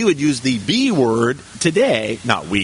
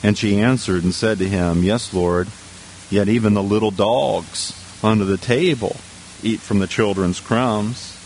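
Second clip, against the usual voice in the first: low, measured Bible reading; scripture reading; 5 semitones lower than usual. Real, not acted. Preacher reading the verse to the congregation, low scripture reading. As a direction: read the verse out evenly in a lower voice.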